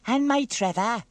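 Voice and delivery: high, loud, lightly huffy worry; Dilys sniffing. Acted. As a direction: chime in with a wounded sniff. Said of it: "sniffed Dilys".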